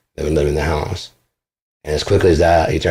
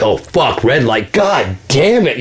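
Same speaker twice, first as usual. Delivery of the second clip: mock frustrated victim; 5 semitones higher, much slower than usual. Imitating cursed man.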